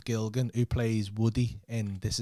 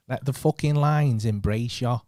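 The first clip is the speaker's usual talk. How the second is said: slower, louder second take as Manny; Manny impression; 5 dB louder, slower than usual. Trying the Manny voice again for his mate, slow and loud. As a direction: lean into Manny harder, drawn out. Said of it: "That was well better".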